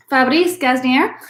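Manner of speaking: French name with a Spanish accent. Real, not acted. Wine host reading a French winemaker's name, Spanish accent. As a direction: say it as if it were Spanish. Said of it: "in a Spanish accent".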